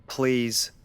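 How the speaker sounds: gently asking a patient; lightly voiced doctor stallion. Doctor stallion to Fluttershy, lightly voiced calm.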